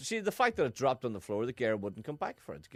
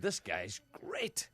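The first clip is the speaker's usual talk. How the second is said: whispered quote; 5 semitones lower, 6 dB quieter, much slower than usual. Retold or imitated. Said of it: "I said".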